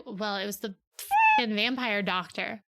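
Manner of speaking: slow, sullen and sarcastic; grumpy sarcasm. Retold or imitated. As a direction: drag it out with contempt. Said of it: "And Jacob's like".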